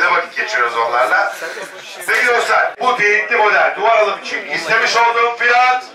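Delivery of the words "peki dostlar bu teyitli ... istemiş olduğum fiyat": rapid auction bid calling; auctioneer. Real, not acted. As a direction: call the bids like an auctioneer. Live auction calling bids.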